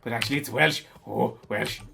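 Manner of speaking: exaggerated sing-song Welsh accent. Shown as a demonstration. Streamer showing viewers how Welsh people talk, exaggerated Welsh accent. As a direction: put on a bouncy Welsh accent. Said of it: "this is the Welsh accent".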